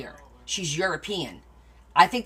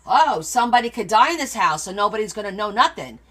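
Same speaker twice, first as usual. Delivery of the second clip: loud mock lament; lightly hammed-up complaining mom; mom's guilt trip; 3 semitones higher, 6 dB louder than usual. Shown as a demonstration. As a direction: throw it out as bait for sympathy. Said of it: "Mom handles it like this".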